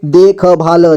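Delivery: देखभाल with ख and ल each given a vowel; syllable by syllable. Shown as a demonstration. Teacher breaking down देखभाल for learners, syllable by syllable. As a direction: sound out देखभाल piece by piece. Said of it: "जोड़ जोड़ करके".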